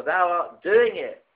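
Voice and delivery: "thou art doing it" slowly drawn out, stress on "doing"; deliberate, solemn "thou art doing it"; slow, weighty reading. Shown as a demonstration.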